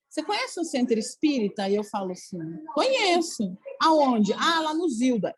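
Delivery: lightly acted question and answer; acted chatty exchange. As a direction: play both sides of a casual conversation. Acted small-talk dialogue about a centre.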